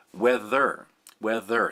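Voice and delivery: "Whether" drawn out over both syllables; stretched-out word. Shown as a demonstration. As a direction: stretch "Whether" and let it hang. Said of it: "Think about how that stretches things out".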